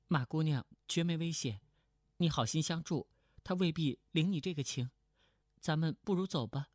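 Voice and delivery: lightly voiced young woman, even and quick; 程灵素. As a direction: play a cool-headed companion urging him away. (轻声扮演程灵素，语调平稳略快)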